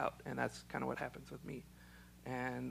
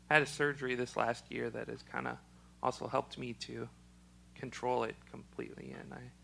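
slightly choked up, a frog in the throat. Real, not acted. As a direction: talk through a frog in the throat. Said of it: "it kinda sounds like I'm getting choked up".

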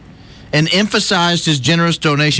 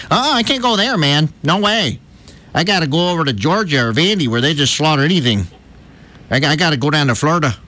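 put-on Southern accent. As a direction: ham up a Southern accent, not Alabama. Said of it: "If you're gonna do Southern accent".

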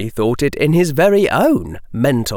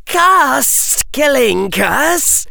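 high, slow incredulous hiss; hissing Parseltongue; 14 semitones higher, 3 dB louder, much slower than usual. A narrator's reading. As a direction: hiss it in disbelief. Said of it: "Harry hissed in incredulity".

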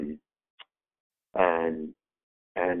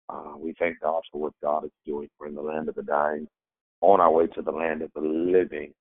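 hoarse, rough cold-stricken voice. Real, not acted. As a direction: speak through a head cold, a bit hoarse. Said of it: "excuse my voice this morning, y'all. I am catching a cold".

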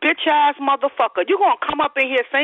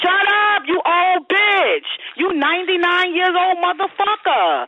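angry yelling; 4 semitones higher than usual. Real, not acted. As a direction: yell them straight at him. Shouted insults at an old caller.

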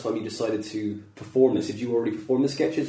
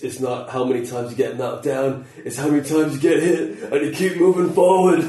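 cheesy Rocky line; 3 dB louder than usual. Retold or imitated. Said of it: "a really cheesy line now from Rocky".

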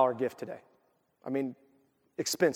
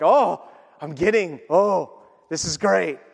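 put-on stoked kid; 4 dB louder, slower than usual. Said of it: "I was so stoked".

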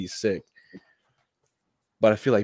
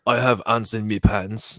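playful imitation Geordie accent. Host mimicking people from South Shields, mock Geordie accent. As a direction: put on a comic Geordie accent. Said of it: "like, the Geordie".

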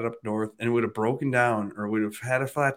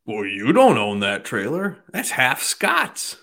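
slow drawn-out neighbor; 2 semitones higher, 6 dB louder, slower than usual. Retold or imitated. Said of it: "Guy goes".

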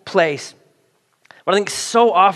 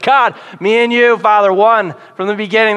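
showy loud prayer; 3 semitones higher, 4 dB louder than usual. Retold or imitated. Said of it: "I'll talk even louder".

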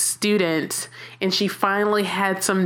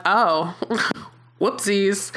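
giggly whoopsies; slower than usual. Retold or imitated. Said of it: "I'm like".

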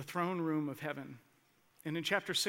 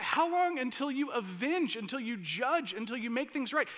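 higher and louder, pleading; loud plea; 7 semitones higher, 4 dB louder than usual. Acted. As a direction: cry for justice, rising. Voicing saints' cry.

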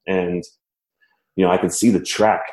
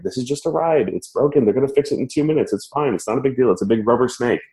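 mock panicked self-talk; 6 semitones higher than usual. Rider's brain reasoning with himself at the broken ride, mock-frantic and high. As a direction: talk yourself down in a raised, insistent pitch. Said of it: "my brain is screaming at me".

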